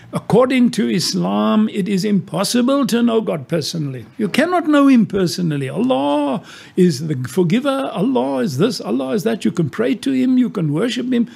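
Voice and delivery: quoting the Muslim woman. Retold or imitated. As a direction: raise the voice to voice her certainty.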